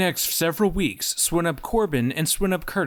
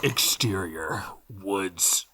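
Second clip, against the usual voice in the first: muffled voice talking into a cup; 11 semitones lower, 4 dB quieter than usual. Acted. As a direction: speak low into a cup. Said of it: "Why are you talking to a cup?".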